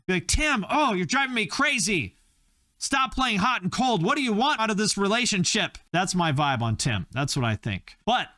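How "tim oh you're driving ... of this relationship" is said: high, melodramatic pleading; exasperated lover. Acted. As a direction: play a frantic lover at wit's end, pitched high. Acted lovelorn date pleading with Tim.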